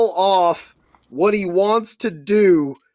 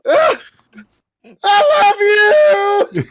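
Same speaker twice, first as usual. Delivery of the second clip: much higher, loud and stretched-out screaming cry; ecstatic scream; 11 semitones higher, 5 dB louder, much slower than usual. Acted. Crotchbox screaming with barbed wire in his crotch. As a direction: scream it in agonised delight. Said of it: "you hear him scream".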